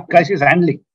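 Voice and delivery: real laughter between the words; amused laugh. Real, not acted. Panelist answering the host's joke about crisis, laughing. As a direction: chuckle through the phrase.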